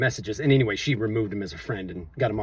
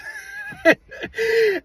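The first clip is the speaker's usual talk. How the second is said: high amused laugh. Real, not acted. Laughing as he retells how she got overheard, amused. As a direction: break into a high laugh mid-story. Laughing while telling the story.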